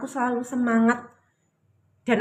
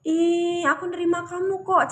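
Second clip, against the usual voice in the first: accepting reply; 7 semitones higher than usual. Acted. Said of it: "akan gini loh".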